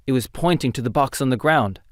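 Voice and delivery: ordinary delivery, nothing marked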